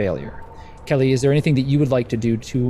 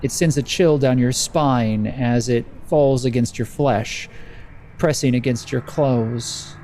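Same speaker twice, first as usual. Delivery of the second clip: measured narration with suspenseful pauses; lightly dramatic storyteller delivery; game master's scene setting. Acted. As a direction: let the storm creep in, phrase by phrase.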